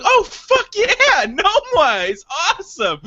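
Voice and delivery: high, thrilled outburst; excited. Retold or imitated. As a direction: cheer like you just heard great news. Excited reaction to hearing friend mentioned.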